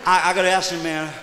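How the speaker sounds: Rigsby voice. Acted. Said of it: "My name's Rigsby".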